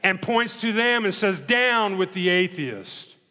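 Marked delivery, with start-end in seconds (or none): 1.4-3.2 slow, grim, mock retort; a measured, grim echo. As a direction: turn the slogan back on the crowd, grimly and slowly. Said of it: "grimly looks out at this mass".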